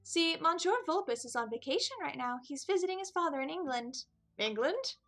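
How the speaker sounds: high, squeaky little mouse voice; a tiny mouse greeting customers; high-pitched Mousie. Acted. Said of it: "Who had a very high-pitched voice".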